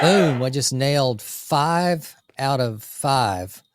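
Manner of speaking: slow, triumphant shout; excited boast. Real, not acted. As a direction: shout the win out slowly, savoring it. Bragging about a checklist win.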